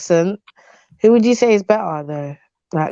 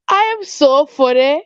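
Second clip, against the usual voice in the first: laughing; 4 semitones higher than usual. Real, not acted. Amused at own joke, laughing.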